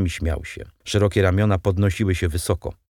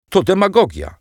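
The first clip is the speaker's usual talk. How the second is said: much higher, louder exclamation; outraged cry; 11 semitones higher, 6 dB louder than usual. A narrator's reading. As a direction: cry out in indignation. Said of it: "zawołali deputaci". (oburzony okrzyk, wysoko i głośno)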